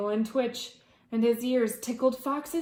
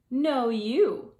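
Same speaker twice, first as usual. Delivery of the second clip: wolf insisting; 3 semitones higher, 7 dB louder than usual. Acted. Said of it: "said Wolf".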